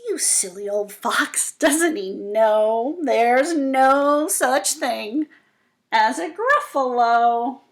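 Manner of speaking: slow smug mouse marveling at the silly fox. Acted. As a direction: savor the trick. Mouse chuckling to itself.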